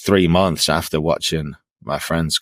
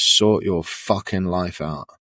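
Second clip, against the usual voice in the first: hushed half-whispered stage whisper, close and low. Retelling what your mom half-whispered in your ear early one morning, retelling a half-whisper. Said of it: "She whispers".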